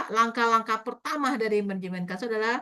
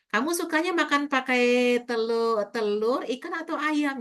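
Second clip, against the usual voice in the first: put-on example question to child; 3 semitones higher than usual. Shown as a demonstration. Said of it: "Jangan nanya begitu".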